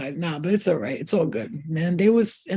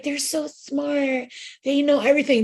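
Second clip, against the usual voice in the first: mock awe; 6 semitones higher than usual. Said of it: "we're like".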